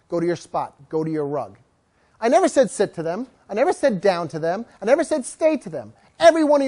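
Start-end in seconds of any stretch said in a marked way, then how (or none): 0.1-1.6 command demo. Shown as a demonstration. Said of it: "I call it go to place".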